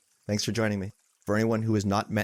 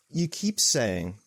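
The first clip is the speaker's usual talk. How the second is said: imitating a puzzled questioner, slow and higher; asking, not attacking; 4 semitones higher, much slower than usual. Woman in Q and A querying the teacher, curious. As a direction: draw it out as an honest query, no attack. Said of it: "she wasn't attacking".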